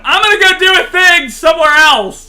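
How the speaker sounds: high, loud cartoon voice; mock villager voice. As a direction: shout it like a silly game unit. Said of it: "it was like".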